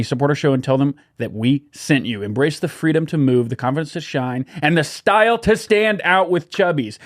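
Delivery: cheery podcast ad voice; ad read. Acted. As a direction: sell it like a radio spot. Host reads sponsor ad.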